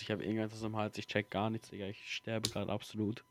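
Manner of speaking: throat irritated from coughing; croaky throat, coughing fits; frog in throat. Real, not acted. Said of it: "Sorry, dass ich die ganze Zeit husten muss".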